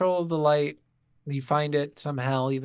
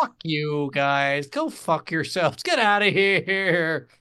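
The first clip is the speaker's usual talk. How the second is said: mock-upset dismissal; 3 dB louder, much slower than usual. Acting out overwhelmed reaction to game.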